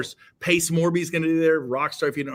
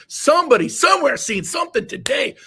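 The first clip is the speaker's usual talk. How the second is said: rallying shout; 10 semitones higher, 6 dB louder than usual. Retold or imitated. Retelling rallying himself at office.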